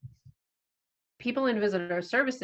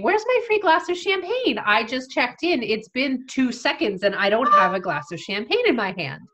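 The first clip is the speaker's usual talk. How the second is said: demanding guests; 3 semitones higher, 3 dB louder than usual. Retold or imitated. Impatient guests demanding champagne.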